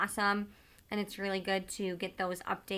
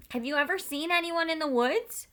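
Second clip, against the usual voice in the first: barked question; 8 semitones higher than usual. A narrator's reading. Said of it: "the soldier barked a question at her".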